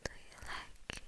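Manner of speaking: breathy whisper right in the ear; cupped hand whisper. Shown as a demonstration. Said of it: "really deep into your ears like this".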